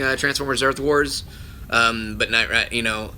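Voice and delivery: normal talking voice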